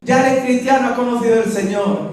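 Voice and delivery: high, laughing joyful outburst; mock joyful shout of praise; joyful cry. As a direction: cry out in glad surprise. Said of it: "empieza a dar gritos".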